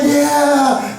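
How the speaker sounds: pumped-up cheer; fired up. Acted. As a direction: join in the soldiers' excitement. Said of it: "They're getting fired up".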